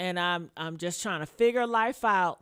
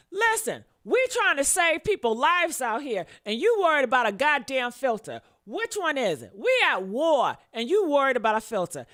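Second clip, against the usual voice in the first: heated rant; 3 semitones higher, 4 dB louder than usual. Real, not acted. Arguing with commenters about filter.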